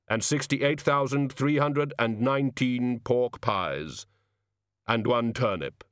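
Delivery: slow, measured voice of Death; solemn Death. Acted. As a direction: count it out with slow gravity.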